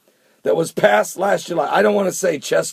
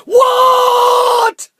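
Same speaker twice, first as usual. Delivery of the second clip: very high, loud shrieked what; mock shocked shout; 7 dB louder than usual. Vlogger mocking viewers' knee-jerk reaction, high shrieked shout. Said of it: "before we just go".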